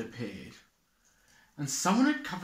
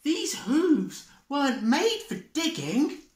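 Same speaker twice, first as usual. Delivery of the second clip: much higher, despairing Deer; 12 semitones higher, 4 dB louder than usual. Acted. Deer gives up on digging, high and despairing. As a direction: whine it helplessly. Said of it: "said Deer".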